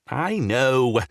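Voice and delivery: loud irritated growl. A narrator's reading. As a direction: growl it, cutting them off. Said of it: "he growled".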